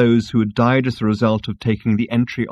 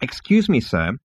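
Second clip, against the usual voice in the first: icy; 4 semitones higher than usual. Acted. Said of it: "said the insect icily".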